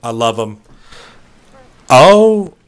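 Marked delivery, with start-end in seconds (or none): 1.9-2.5 surprised oh. Real, not acted. Reaching the goal at last.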